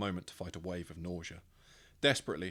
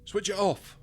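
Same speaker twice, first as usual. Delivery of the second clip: much higher, much louder yell over a machine; urgent shout; 12 semitones higher, 9 dB louder, slower than usual. Acted. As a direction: bark it over the racket.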